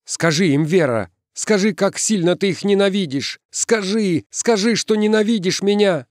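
very high, urgent begging; desperate pleading. A narrator's reading. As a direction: beg her with tears stinging. Отчаянно умоляет подругу, слёзы.

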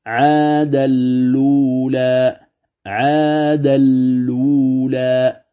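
slow "عاد اللولى", lam doubled, no nasal; Warsh recitation. Shown as a demonstration. Teacher contrasts Warsh reading with Hafs, slow recitation. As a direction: draw out "عاد اللولى" with full merge. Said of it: "هكذا يقرأها ورش".

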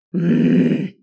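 low angry growl; a beastly growl through closed lips; a man's strangled growl. A narrator's reading. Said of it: "сорвался рык с мужских губ".

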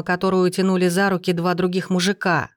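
ordinary delivery, nothing marked

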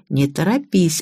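ordinary delivery

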